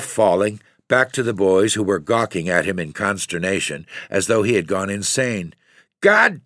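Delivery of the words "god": slow, furious curse, much higher and louder; savage yell. Acted. Father losing it over the lost skiff, savage yell. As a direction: roar it out in blind rage. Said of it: "he yelled savagely".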